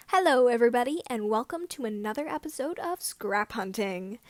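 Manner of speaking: loud upbeat host opener; vlogger greeting. Acted. The speaker opening his Scrap Hunting video, loud host greeting. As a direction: hit the greeting like a channel host.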